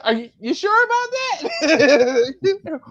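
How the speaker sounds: high, slow, drawn-out mock doubt; sarcastic doubt. To the stranger bragging about the team, slow and sarcastic. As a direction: stretch it out, teasing him.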